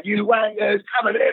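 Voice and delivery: jeering up at the crowd, pitched high; mock-leery jeer at the home fans; leery taunt. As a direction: goad them like a cocky kid. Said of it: "All leery when all the police around me".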